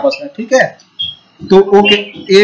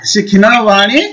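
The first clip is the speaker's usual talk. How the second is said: slow prompt. Shown as a demonstration. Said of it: "के का बोलो ना".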